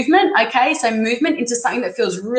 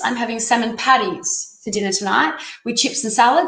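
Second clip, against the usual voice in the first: ordinary delivery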